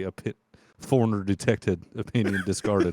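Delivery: flat monotone machine voice; robot voice. Pretend. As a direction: speak like a cold computer announcement. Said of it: "put on a robot voice".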